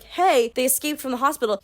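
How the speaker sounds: a matter-of-fact doctor telling it straight; just state the facts like a normal doctor; lightly voiced doctor breaking news to family; plain doctor quote. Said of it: "as the doctor ... have to be like".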